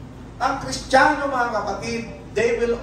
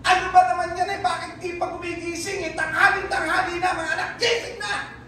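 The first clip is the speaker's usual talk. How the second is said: put-on higher, scolding the kids awake; mock angry parent; 6 semitones higher than usual. Parent scolding sleeping children, mock angry. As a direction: play the nagging parent calling at noon. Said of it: "yung nag-uutos sa'yo pagalit".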